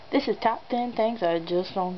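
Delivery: a slight Southern country twang on top ten; lightly drawled country accent. Real, not acted. Vlogger to viewers, a light country accent. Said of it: "Why did I get a country accent right there?".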